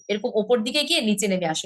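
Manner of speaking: ordinary talk, nothing marked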